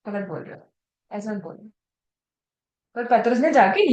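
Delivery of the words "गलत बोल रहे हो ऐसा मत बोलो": acted discreet correction, very soft; hushed reproof. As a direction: drop the voice to privately reprove an elder. Imagined private rebuke of an elder.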